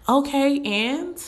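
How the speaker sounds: high, sharp "so what" shrug; dismissive okay. Real, not acted. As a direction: brush it off, unimpressed. Dismissive reply to complaints.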